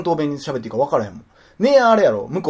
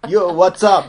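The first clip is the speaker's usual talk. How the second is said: mock New York greeting, pitched up; New York slang; 4 semitones higher, 6 dB louder, much slower than usual. Teasing her as New York-raised, mock American accent. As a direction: throw a laughing, louder New York "yo". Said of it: "ニューヨーク育ちっぽい".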